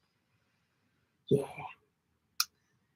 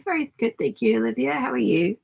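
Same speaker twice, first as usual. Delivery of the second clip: hoarse, croaky morning voice; 3 semitones higher than usual. Real, not acted. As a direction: croak it out like a frog. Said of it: "I just sound like a croaky frog".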